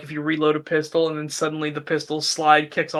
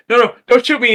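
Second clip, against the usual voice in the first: mock pleading; 6 semitones higher, 7 dB louder, faster than usual. Visitor begs in retold video.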